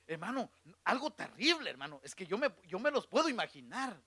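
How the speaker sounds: normal talking voice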